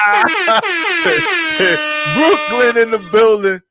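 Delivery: high, loud Brooklyn hype; hyped. Real, not acted. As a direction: shout it out for the borough. Hyping Brooklyn shout out.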